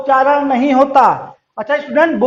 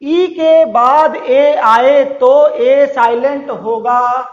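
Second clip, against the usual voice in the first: slow, spaced-out rule reading; teacher repeating the rule slowly; slow dictation; much slower than usual. Shown as a demonstration. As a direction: read each word slowly so they can write. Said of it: "फिर से मैं पढ़ रहा हूं".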